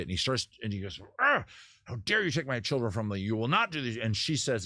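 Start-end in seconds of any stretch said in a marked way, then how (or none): 1.2-4.0 mock angry growl into a tirade; hammed-up indignant fury, half-hearted; mock outburst. Husband confronts wife over their children, mock rage. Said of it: "he loses his shit".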